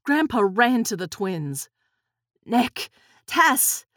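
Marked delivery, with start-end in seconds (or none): 2.4-3.9 louder, higher holler to Walter; urgent shout across the room. Acted. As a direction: call out for help in alarm. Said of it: "he hollered to Walter".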